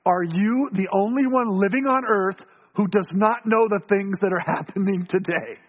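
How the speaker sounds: mildly sarcastic question; a touch of disbelief, lightly mocking. Disciples answer the stranger, mildly sarcastic. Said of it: "kind of sarcastically".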